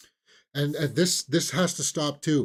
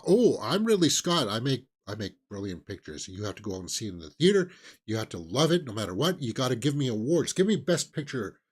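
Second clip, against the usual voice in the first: a hint of pompous insistence; mock entitled director. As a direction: imitate a director demanding his due. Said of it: "big directors that feel a sense of entitlement".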